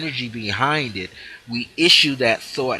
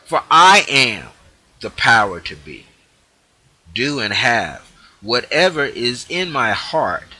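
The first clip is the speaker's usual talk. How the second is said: proclaiming; 3 dB louder than usual. Shown as a demonstration. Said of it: "Now here's the part".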